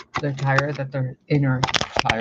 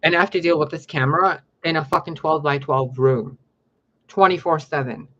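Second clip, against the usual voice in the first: louder, exasperated venting; frustrated outburst; 2 semitones higher, 5 dB louder than usual. Real, not acted. Channeler venting to viewers about her tiny room, loud exasperation. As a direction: blow up at the camera setup.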